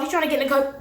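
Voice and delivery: ordinary talk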